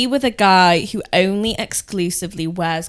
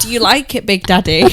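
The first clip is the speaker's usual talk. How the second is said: loud, hammed-up English accent; 2 semitones higher, 5 dB louder than usual. Shown as a demonstration. Friend showing how unsexy it sounds, exaggerated English accent. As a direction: overdo the English accent on purpose. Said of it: "let's say in an English accent".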